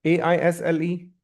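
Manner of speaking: letters spelled one by one, slowly; teacher spells the word letter by letter for the class. Shown as a demonstration. Slow spelling for students. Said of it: "how will you read this word?".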